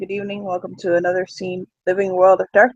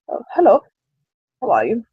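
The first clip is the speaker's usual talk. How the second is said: put-on light German accent on a friendly greeting; American voice with a mild German accent. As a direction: greet her with a hint of German. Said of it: "in an accent she probably didn't expect".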